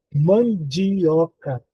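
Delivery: "Mandioca" drawn out very slowly, each syllable given its own space; slow clear demo. Shown as a demonstration. Teacher presents the example word to her students, slowly drawn out. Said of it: "Quantas vogais nós temos?".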